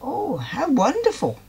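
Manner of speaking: put-on high, light piggy girl; girlish Molly voice. A narrator's reading. Molly thrilled at the thought of a ball, squealing. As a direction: squeal it with delight.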